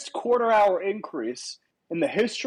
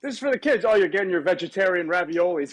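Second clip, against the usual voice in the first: wrestling promo; 2 semitones lower, faster than usual. Acted. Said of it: "cutting a promo on children".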